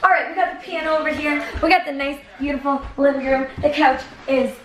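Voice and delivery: fast, upbeat house tour; quick tour-guide voice. Shown as a demonstration. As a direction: show how it's done, briskly. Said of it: "I gotta show you how it's done now".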